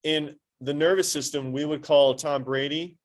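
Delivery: usual speaking voice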